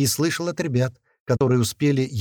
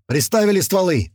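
high, forceful order; raised commanding voice; barked command; 7 semitones higher, 4 dB louder than usual. A narrator's reading. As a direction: bark the next order. Gunman barks next order.

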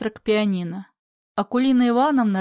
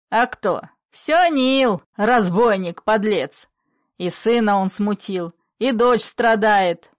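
raging blame; 4 dB louder, slower than usual. Acted. Father raging at Nil.

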